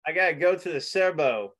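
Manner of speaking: poor attempt at an Australian accent; American butchering an Australian accent; bad Australian accent. Shown as a demonstration. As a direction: have a clumsy go at Australian. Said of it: "That was horrible".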